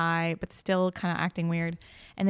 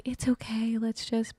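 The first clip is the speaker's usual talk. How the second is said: slightly higher, imagined comforting voice; mock reassurance; 4 semitones higher, slower than usual. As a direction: gently soothe him, half-acted. Imagined comforting of crying boyfriend.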